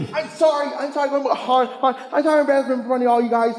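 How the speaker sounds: flustered words, off mic. Real, not acted. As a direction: voice distant, away from mic. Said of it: "You're off mic".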